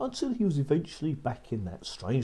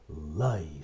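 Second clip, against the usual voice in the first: a lower giant's order; giant's command; 6 semitones lower than usual. Acted. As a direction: order the hen to lay.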